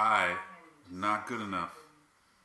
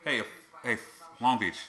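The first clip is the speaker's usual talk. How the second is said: calling out. Real, not acted. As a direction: yell it out at Long Beach. Calling out to Long Beach.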